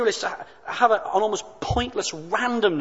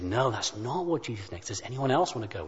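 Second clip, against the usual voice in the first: gently; 8 semitones lower, 8 dB quieter, faster than usual. Retold or imitated. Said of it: "And gently I said".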